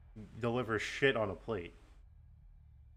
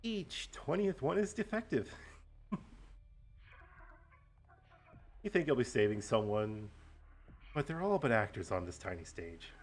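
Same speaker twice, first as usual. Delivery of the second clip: gloating villain monologue; slow theatrical villain menace. Acted. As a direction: lay out the grand plan, gloating. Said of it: "do a nice villain monologue".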